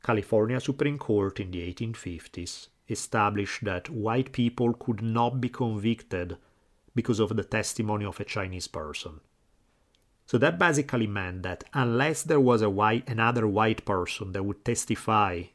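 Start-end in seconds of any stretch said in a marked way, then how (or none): 0.0-9.2 slow and deliberate; over enunciating. Shown as a demonstration. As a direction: spell it out slowly. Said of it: "so let me say it slowly".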